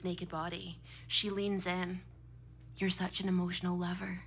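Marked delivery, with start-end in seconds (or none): 2.8-4.2 softer, lightly voiced seductive purr; a hint of a lover murmuring; seductive whisper. Emily leaning in to the crying storyteller, mock seductive murmur. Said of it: "she whispers seductively".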